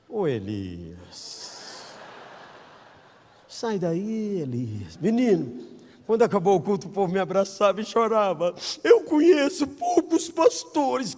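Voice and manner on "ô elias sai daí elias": slow, low, soft drawn-out call; tender fatherly call; gentle tender call. Retold or imitated. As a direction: coax him out of the cave gently. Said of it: "Lembrei do conselho do carro".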